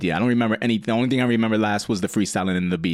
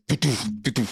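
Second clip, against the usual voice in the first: imitated fart noise; 4 dB quieter, faster than usual. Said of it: "all hear is".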